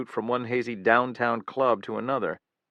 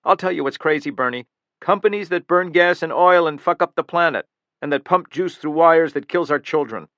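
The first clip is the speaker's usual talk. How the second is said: loud, higher furious tirade; angry rant; 5 semitones higher, 7 dB louder than usual. Acted. Killer to the guard, ranting loud and angry. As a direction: spit the accusations out in rage. Killer rants about companies.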